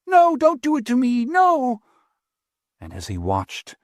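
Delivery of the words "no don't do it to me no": high, desperate begging; terrified pleading. Acted. Apprentice pleading as he is thrown to the fire, terrified. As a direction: beg for your life.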